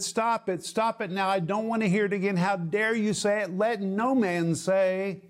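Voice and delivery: stern rebuke. Acted. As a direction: put a firm stop to it. James rebuking wrong thinking, acted.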